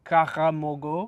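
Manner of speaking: "kakamogo" with the R made in the throat, slowly; "kakamogo" with a hard back-of-the-throat sound; throaty R. Shown as a demonstration. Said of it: "You don't wanna say".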